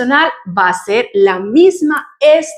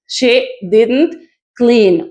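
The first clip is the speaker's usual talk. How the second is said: slow contraction; much slower than usual. Shown as a demonstration. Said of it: "o la contracción".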